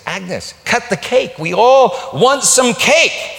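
gruff call. Retold or imitated. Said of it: "Harry said".

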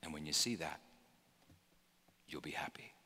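soft unvoiced whisper. Preacher whispering a promise to Peter. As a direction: breathe it like a secret. Hushed promise at sermon close.

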